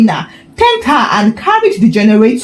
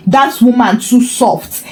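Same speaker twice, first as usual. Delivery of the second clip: laughing mockery. Tony mocking, laughing.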